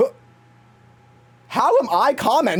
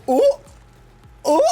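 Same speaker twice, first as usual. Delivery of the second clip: mock scandalized ooh; 9 semitones higher than usual. Watching the episode, high mock scandalized ooh. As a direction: coo like a scandalized viewer. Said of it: "I'm like".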